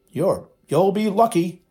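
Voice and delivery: high, gleeful poltergeist jeer; crackling poltergeist voice. A narrator's reading. Poltergeist taunting the headmaster, a crackling jeer. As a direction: crow it like a mocking ghost. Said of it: "said a crackling voice".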